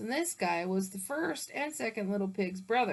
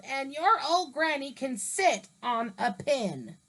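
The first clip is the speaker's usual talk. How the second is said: pig yelling; 2 semitones higher, 3 dB louder than usual. Acted. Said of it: "the third little pig yelled".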